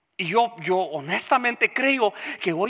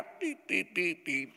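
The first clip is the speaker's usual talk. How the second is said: mock weak trumpet; 2 semitones lower, 9 dB quieter, slower than usual. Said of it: "La trompeta no se suena".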